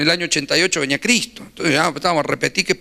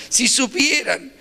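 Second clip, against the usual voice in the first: slow knowing emphasis; 7 semitones higher, much slower than usual. Real, not acted. Emphatic aside to the audience.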